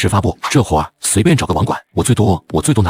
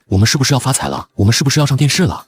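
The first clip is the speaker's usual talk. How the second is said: giddy questions rising higher on the second; excited, building; 5 semitones higher than usual. Acted. Friend to partner about a million-view website, excited. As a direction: get more thrilled with each question.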